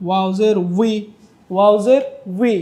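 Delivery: উই said like the start of উইকেট; like wicket. Shown as a demonstration. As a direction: glide w into i as in wicket. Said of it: "sound যদি না আসে, আপনি খেয়াল করবেন উইকেট".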